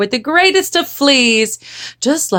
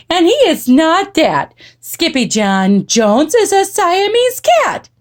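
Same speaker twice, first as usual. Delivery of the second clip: higher, emphatic motherly insistence; frazzled mama; 8 semitones higher than usual. A narrator's reading. Mama setting the girls straight, frazzled. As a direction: insist like a mother at wit's end.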